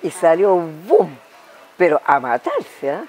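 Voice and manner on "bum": short vocal boom for a sudden take-off; imitated boom. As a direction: voice a quick "bum" as sound effect. Imitates horse bursting away.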